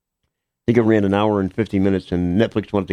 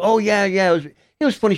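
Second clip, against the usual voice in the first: imitating a girl; 11 semitones higher than usual. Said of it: "She goes".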